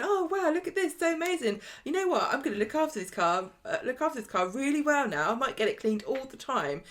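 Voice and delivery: high, delighted mock gushing at the start, easing down; gushing on phone. Todd phones Theo about his cleaned car, gushing. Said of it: "phoning Theo up, going".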